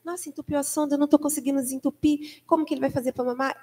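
a touch of retold fluster; retold nervous nurse. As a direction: mildly mimic a worried nurse. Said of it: "já nervosa".

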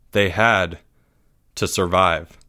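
ordinary delivery, nothing marked

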